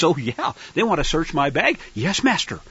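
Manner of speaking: mock docile slave. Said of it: "good little slaves will recognize".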